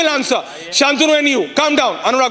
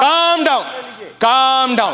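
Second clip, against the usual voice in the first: raised call to calm down; slower than usual. Real, not acted. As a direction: cut through the shouting with a firm call. Host shouting down heated panelists.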